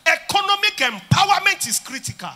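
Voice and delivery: "Economic empowerment is critical" shouted high; loud proclamation. Shown as a demonstration. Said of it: "I say to you again".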